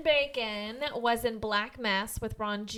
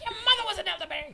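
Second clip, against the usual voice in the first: silly voice; 8 semitones higher, much faster than usual. Pretend. Silly voice joking back.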